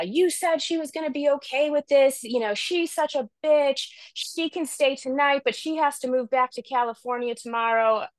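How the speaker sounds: high-pitched mock outrage, as if griping down the phone; retold angry complaint. Mother complaining to brother after a huge fight, imitated indignant high voice.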